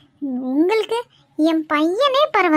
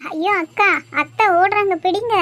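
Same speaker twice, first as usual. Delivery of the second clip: urgent calling out; 3 semitones higher than usual. Acted. Aunt runs away from them.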